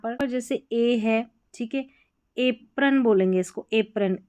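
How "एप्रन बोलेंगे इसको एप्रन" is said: एप्रन opening on a long letter-name A; A as alphabet sound. Shown as a demonstration. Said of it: "ए जो है अपना alphabet sound से जाना जाएगा".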